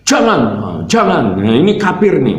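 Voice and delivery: high-pitched, imitated sibling's objection; retold indignant protest; angry forbidding. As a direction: forbid it sharply, pitch jumping up. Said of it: "tapi dilarang oleh adik saya".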